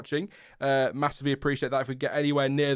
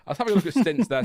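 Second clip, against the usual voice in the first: laughing; 4 semitones higher, 5 dB louder, faster than usual. Real, not acted. Laughing while reading chat.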